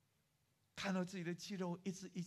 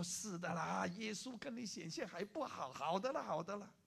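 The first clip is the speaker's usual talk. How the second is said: lively, louder brushing away of doubt; offhand reassurance; 4 semitones higher, 4 dB louder than usual. Acted. Old woman casually assures the student he will recover, brightly insistent. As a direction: reassure breezily, pitched up. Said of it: "随口讲一下安慰的话".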